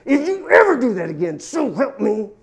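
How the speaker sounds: stern warning, pressing on ever; a firm threat to a disciple; mock indignant warning. Jesus taking Peter aside, stern indignant warning. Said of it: "'Cause that's indignant".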